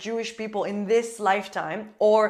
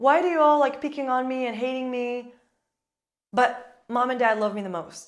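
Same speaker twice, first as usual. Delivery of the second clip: put-on tearful, blubbering crying kid's voice; 3 semitones higher than usual. Acting out a bullied child complaining to siblings: mock crying. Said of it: "he's gonna be crying and saying".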